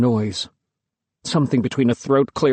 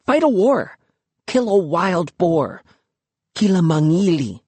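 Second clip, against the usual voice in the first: quick and high, rushing the idea; eager idea; 5 semitones higher than usual. Acted. Luki pitching her bold plan, quick and eager. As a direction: sell him the plan. Luki listing manly deeds.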